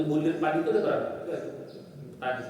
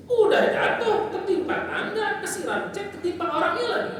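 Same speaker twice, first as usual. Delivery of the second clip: laughing, pitched high, piling up the misfortunes; a preacher laughing through the saying for his congregation; 4 dB louder than usual. Acted. Preacher laughing through a list of bad luck, pitched high.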